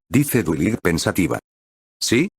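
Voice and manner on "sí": expressionless. A narrator's reading. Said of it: "dice inexpresiva".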